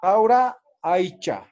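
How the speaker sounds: caura aicha slowly, the first vowel drawn out; Aymara word. Shown as a demonstration. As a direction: draw out caura, then aicha. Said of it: "Carua o caura".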